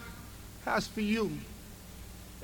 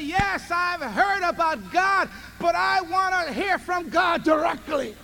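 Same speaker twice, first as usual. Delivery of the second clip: earnest declaration; 5 semitones higher, 4 dB louder, slower than usual. Acted. Voiced believer's declaration.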